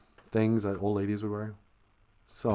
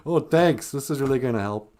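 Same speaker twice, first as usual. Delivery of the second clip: mock grandma thanks; 4 semitones higher, 4 dB louder than usual. Grandma's sarcastic thanks in retelling.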